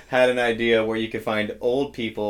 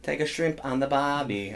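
mock Australian Siri; 2 semitones higher, slower than usual. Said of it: "And Australian Siri".

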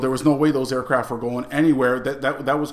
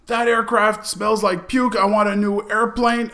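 mock indignant demand; 9 semitones higher, 4 dB louder than usual. Lieutenant complains to the sergeant, mock indignant. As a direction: play the demanding officer.

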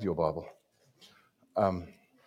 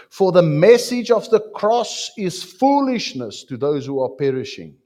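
loud, higher proclamation; scripture reading; 7 semitones higher, 7 dB louder than usual. Acted. Preacher reading Corinthians to the church, loud and proclaiming. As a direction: proclaim it out to the room.

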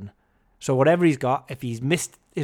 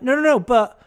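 higher, louder indignant protest; raised, outraged pushback over a stolen beer; 8 semitones higher, 6 dB louder than usual. Retold or imitated. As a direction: insist they took your beer, exasperated. Retold row with waitress over beer.

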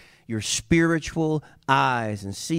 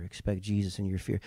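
much softer, near a hush; soft repetition; 7 semitones lower, 9 dB quieter than usual. Shown as a demonstration. Preacher repeating the refrain to the congregation, much softer. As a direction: let it sink in quietly. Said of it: "repeated refrain".

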